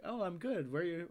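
mild mock British accent; slipping into British accent. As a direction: catch the British accent while chatting back. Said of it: "I'm starting to do it".

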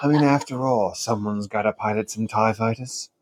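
put-on measured, formal admiral voice with an accent; formal villain checking in politely; Grand Admiral Thrawn. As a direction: play a courteous Star Wars Imperial officer. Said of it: "he was doing a character from Star Wars".

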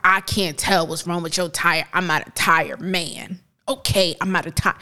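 mock-rude imitation of a fed-up driver; rude tire guy. Roadside guy answering about her tire, imitated rude dismissal. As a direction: brush them off, imitating his attitude. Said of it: "He was really rude".

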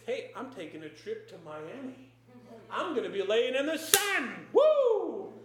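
building to a loud whoop; excited cheer. Pretend. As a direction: cheer like you're off to Miami. Imagined Miami trip cheer.

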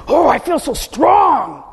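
imitating a newly strengthened man, loud and high; big, slow, hammed-up shout of strength; exultant strong voice. Retelling the man walking up ten minutes later, exultant. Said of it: "each time it got a little bit louder".

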